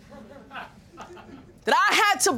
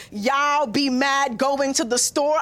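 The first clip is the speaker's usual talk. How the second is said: mocking mommy; 3 semitones lower, slower than usual. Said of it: "mommy mocks me and says".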